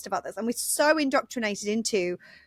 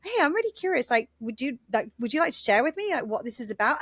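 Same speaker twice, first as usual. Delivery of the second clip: curious; 2 semitones higher than usual. Acted. Modelling how to ask someone to share, mildly curious. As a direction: open brightly pitched, then ask with mild curiosity. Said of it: "you can be curious around it".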